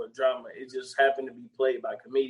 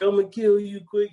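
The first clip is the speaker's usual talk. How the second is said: high, whiny crying threat; mock crying threat; 8 semitones higher, 5 dB louder than usual. Retelling the chase scene, high mock crying. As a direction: sob it out like a crying gunman. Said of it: "He was crying the whole time".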